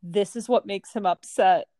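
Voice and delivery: lightly deadpan imitation of an unamused husband; straight-faced. Husband straight-faced to laughing wife, imitated deadpan. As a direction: say it evenly, without a trace of laughter. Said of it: "Nick straight face looks at me".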